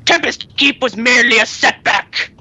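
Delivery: lightly voiced game boss quote; a hint of a haughty villain declaiming; mild villain impression; Kel'Thas. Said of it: "Kel'Thas in Magisterius".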